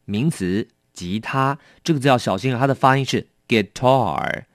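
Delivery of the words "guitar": "guitar" with the stress on "tar" and a curled r; stress on the second syllable. Shown as a demonstration. Teacher showing students the stress in "guitar". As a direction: land the weight on "tar" in "guitar". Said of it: "重音在后面".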